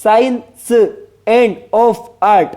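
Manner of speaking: slow, separated beats on "science and of art"; syllable stress demo. Shown as a demonstration. Teacher sounding out the meter for students, slow stressed beats on "science and of art". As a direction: scan "science and of art" word by word, with pauses. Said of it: "इन पर आपको कम जोर".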